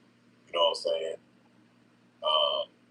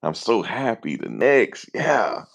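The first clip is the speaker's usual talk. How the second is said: mock excitement; 4 semitones higher, much slower than usual. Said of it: "I'm supposed to be happy".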